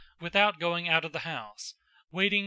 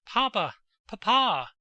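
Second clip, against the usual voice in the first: sobbing; 5 semitones higher, 7 dB louder than usual. A narrator's reading.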